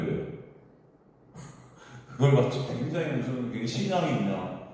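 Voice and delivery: ordinary delivery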